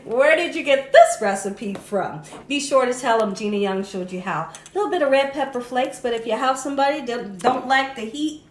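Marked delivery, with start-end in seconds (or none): 0.0-2.2 lightly voiced happy eater, a bit louder; a hint of an excited child praising mommy's cooking; delighted eater. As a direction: ham it up as a thrilled kid begging for the recipe. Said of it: "Make 'em say".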